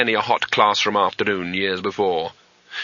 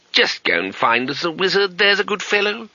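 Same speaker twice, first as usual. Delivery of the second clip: forced kindness; 8 semitones higher than usual. Acted. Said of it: "as kindly as it could manage".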